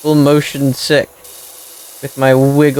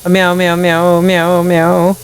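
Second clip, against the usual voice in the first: meowing cat; 3 semitones higher than usual. Pretend. Gamer cat on roof meowing for rescue, light mock meows. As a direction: meow like a cat stuck on a roof. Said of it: "Start meowing".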